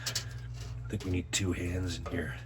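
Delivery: breathing hard while talking; heavy breathing. Real, not acted. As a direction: puff through the words, face pressed in. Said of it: "Sorry for the heavy breathing".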